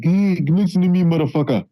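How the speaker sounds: mock African accent, pitched high; exaggerated African accent. Co-host mimics a comic overdoing his accent, exaggerated African accent. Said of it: "you don't talk like that".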